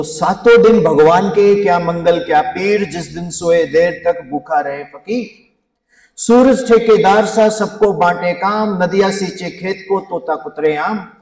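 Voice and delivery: rhythmic couplet recitation; reciting Hindi dohe to an audience; poem recital. Acted. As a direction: recite each couplet in a measured, lilting way.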